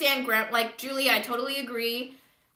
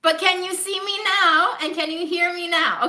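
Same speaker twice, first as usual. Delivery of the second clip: louder, higher repeated check; 8 semitones higher, 6 dB louder than usual. Real, not acted. Friends on the call, loudly checking the line. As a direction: push it through a bad connection.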